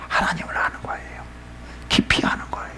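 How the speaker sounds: soft, hushed explanation; whispered answer. Real, not acted. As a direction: let it sink to a whisper. Preacher answers own question.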